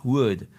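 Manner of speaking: would with no L sound; would, as wood; teacher modelling would; silent L in would. Shown as a demonstration. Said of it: "le L dans would ne se prononce pas".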